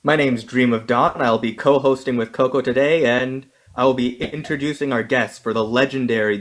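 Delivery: announcer hyping the fighters; building ring announcer intro; wrestling promo. Acted. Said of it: "I wanna do it in a wrestler voice".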